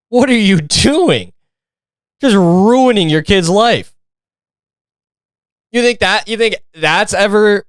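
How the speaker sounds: high-pitched mock scolding; talking down to the mom in disbelief; incredulous scolding. Real, not acted. Ranting at the mom on screen, high and scolding.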